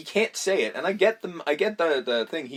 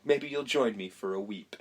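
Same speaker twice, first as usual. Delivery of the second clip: Jack Nicholson being Jack; 3 semitones lower than usual. Retold or imitated. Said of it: "he just sort of goes".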